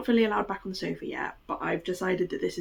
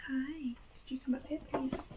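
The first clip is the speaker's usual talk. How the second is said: whispering; 7 semitones higher, 9 dB quieter than usual. Real, not acted. Coaxing dog quietly.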